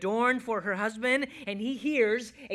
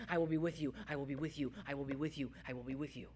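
low, soft repeats fading quieter; hushed promise; 7 semitones lower, 11 dB quieter, much faster than usual. Acted. God promises to be with his people, hushed. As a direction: repeat it gently, sinking towards a hush.

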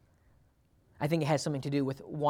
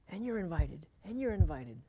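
Oprah impression; 3 semitones higher, 6 dB quieter than usual. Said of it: "meme of O-, Oprah in my head".

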